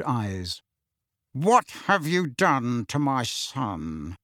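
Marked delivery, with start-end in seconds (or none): 1.3-4.2 menacing growl. Acted. Uncle threatening Harry, slow menacing growl. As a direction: threaten him slowly. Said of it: "in a menacing growl".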